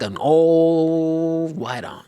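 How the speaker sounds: slow, lightly put-on old lady. Describing the driver, slow lightly voiced old lady. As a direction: drawl it like an aunt. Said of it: "Like, I'm talking like an old lady".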